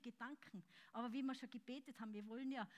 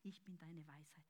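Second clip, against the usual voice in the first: "Ich bin deine Weisheit" whispered softly; whispered God's word; 7 semitones lower, 10 dB quieter than usual. Acted. Whisper then repeated aloud.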